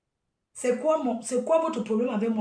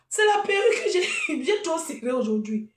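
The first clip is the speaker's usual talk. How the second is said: en riant; 4 semitones higher than usual. Real, not acted. Rit de sa perruque serrée.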